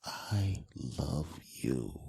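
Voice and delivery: very slow, low, soft declaration; hushed, drawn-out tenderness; meaning it. Shown as a demonstration. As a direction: breathe each word out tenderly with pauses. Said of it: "you gotta go".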